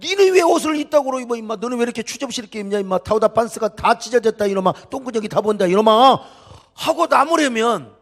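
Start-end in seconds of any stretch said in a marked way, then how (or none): 0.0-6.2 lightly acted nosy man's telling-off; mock scolding from a passing stranger; scolding passerby. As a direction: pick at a stranger's kid, slightly raised pitch. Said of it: "지나가는 아저씨가 가면서야".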